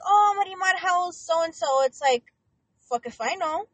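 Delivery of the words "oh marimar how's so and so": sing-song a cheery family greeting; mock sweet relative.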